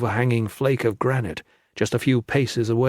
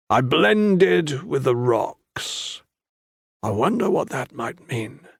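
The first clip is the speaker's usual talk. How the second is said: very slow, dry mocking echo; mocking repeat; slower than usual. A narrator's reading. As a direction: turn his words back on him slowly. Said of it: "Tan chuckled".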